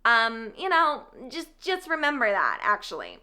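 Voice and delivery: affected character voice with stretched words and lilting rises; put-on Cressida voice. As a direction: play her up, drawing out the ends of phrases. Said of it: "I guess this is her voice now".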